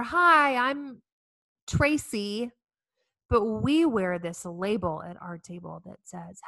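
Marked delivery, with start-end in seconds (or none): 0.0-2.5 bright, much higher, louder cheerful mom greeting; chirpy mom. Retold or imitated. Cafeteria mom introducing herself to others, chirpy. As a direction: chirp it like a perky school mom.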